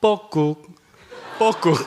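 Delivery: playful cuckoo call with a laugh, rising on the second. Retold or imitated. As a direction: coax a crying child out with a cuckoo call. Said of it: "제가 조용히 소리를 냈습니다". (숨어서 아이에게 장난스럽게 내는 뻐꾹 소리)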